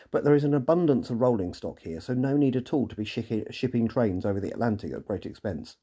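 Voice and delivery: dry mock-reasonable sarcasm; sarcastic. Real, not acted. Reviewer mocking the imported train, mildly sarcastic. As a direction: lay the sarcasm on lightly, mocking the needless expense. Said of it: "Yes, I am being sarcastic".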